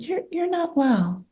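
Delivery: soft, slow and gently firm; hushed concern. Retold or imitated. Colleague quietly tells her she's not well, softly and slowly. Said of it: "And she said".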